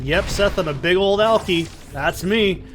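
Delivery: dad's mock confession, lightly sarcastic; breezy fake admission. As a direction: play along with the accusation, joking. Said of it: "I don't know what sarcasm is yet".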